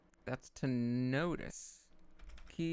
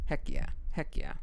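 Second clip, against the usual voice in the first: excited; 6 dB louder than usual. Real, not acted. Celebrating after the drill.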